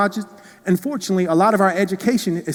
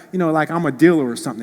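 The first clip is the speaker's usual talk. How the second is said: usual speaking voice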